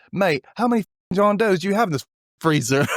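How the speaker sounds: put-on accent dropped, British. Mason to the examiner, dropping the fake accent for British. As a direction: imitate a Brit blurting it out. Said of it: "Before dropping the accent altogether".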